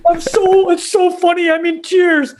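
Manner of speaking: hammed-up "so funny, I'm in tears" gush; mock gushing tweet. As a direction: overplay it like a fake online reaction. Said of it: "I'll always write".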